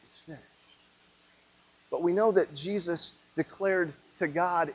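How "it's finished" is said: barely audible, tender whisper; soft, gentle whisper. Shown as a demonstration. Preacher imagining Jesus' dying words on the cross, gentle whisper. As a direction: breathe it out very softly. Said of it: "a soft, gentle whisper of".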